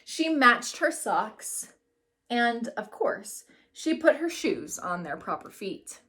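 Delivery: put-on lively read-aloud voice for a class of kids; story narration. A narrator's reading. Teacher reading a picture book to her class, lively storytelling.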